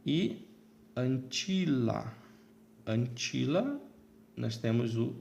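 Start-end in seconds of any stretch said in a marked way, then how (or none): 1.0-2.1 "antila" slowly, stress on TI; tônica na penúltima. Shown as a demonstration. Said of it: "a penúltima sílaba também é longa". 2.9-3.8 "Antila" with stress on TI, rising at the end; tônica na penúltima. Shown as a demonstration. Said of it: "a penúltima sílaba também é longa".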